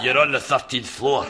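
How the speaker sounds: normal talking voice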